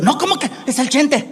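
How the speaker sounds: a hint of a scandalized mother; protesting Mexican mom. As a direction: refuse indignantly as the mom, in Spanish. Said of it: "Mom, you should sit".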